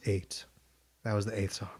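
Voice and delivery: quick secret whisper. Real, not acted. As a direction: breathe it under your breath. Secretly counting songs beside friend.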